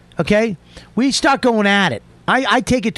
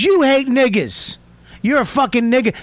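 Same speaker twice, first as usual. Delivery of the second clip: retold screaming accusation; 5 semitones higher than usual. Man retelling the stranger's escalating accusations, mild mock scream. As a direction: hurl it as an imitated accusation, short of a scream. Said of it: "Starts screaming at the top of his fucking lungs".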